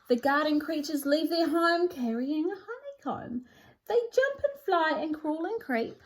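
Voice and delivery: lively storybook read-aloud with sing-song rhymes; animated picture-book narration; reading to children. A narrator's reading. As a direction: read it like bedtime with a small child.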